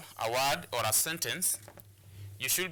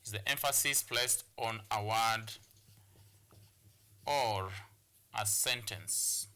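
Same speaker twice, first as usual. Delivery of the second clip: dictation pace; 4 semitones lower than usual. Shown as a demonstration. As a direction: dictate it piece by piece, dropping lower. Teacher repeats definition as if dictating.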